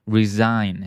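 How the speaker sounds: "resign" with S voiced as Z; Z sound. Shown as a demonstration. Teacher repeating for students, "resign" with Z sound. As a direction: model "resign" with a buzzing Z. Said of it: "we say it with the Z sound".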